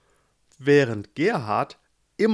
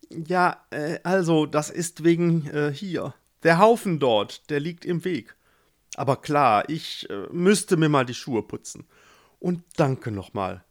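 embarrassed; 3 semitones higher, 4 dB louder than usual. Acted. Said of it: "Gustav war das peinlich".

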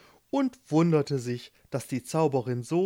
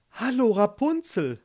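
higher-pitched cheery hail; calling out; 8 semitones higher, 4 dB louder than usual. A narrator's reading. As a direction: call out a hello. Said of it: "rief er". (rufend, mit gehobener Stimme)

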